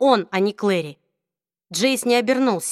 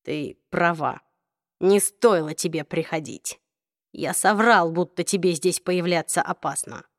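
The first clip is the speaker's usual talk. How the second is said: forcing words out; 3 semitones lower than usual. Acted. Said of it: "через силу выдавливая слова".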